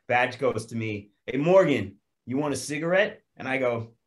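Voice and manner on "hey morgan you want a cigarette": lightly voiced buddy calling out; a hint of a cheeky mate; mock casual offer. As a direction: call him over, offering a smoke. Retold offer from a fellow actor.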